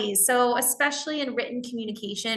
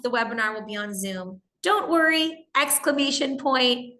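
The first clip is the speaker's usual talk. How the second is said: fake cheerful; 3 semitones higher than usual. Shown as a demonstration. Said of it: "We love to put a smile and an exclamation point".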